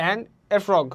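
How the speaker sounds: "frog" pushed out after a light "And a"; stress on FROG. Shown as a demonstration. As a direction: land firmly on "frog". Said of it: "জোর দেওয়া লাগতেছে". ("And a" হালকা, "frog"-এ জোর)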